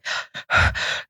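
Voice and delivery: mimicked sobbing gasps, breath only; imitated crying breaths. Woman retelling her breakdown in treatment, imitated tearful gasps. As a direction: act out gasping for breath while crying. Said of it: "I'm crying".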